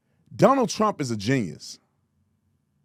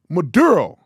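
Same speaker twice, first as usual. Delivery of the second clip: mock Spanish accent; 5 dB louder than usual. Shown as a demonstration. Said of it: "code switching".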